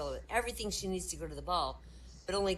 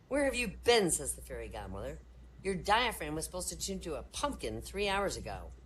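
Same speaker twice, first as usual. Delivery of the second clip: fairy godmother; 3 dB louder than usual. Acted.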